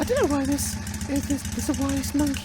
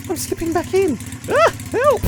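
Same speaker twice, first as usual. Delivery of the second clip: rising alarm, calling help; panicked slipping; alarmed cry for help; 4 semitones higher, 6 dB louder than usual. Real, not acted. Car slips back into water.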